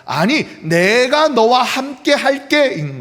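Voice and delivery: 내가 hit loud and slow; slow, emphatic 내가 너와 함께; stress on 내가. Shown as a demonstration. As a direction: lean hard on 내가, slowly. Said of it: "하나님의 대답은 이거예요".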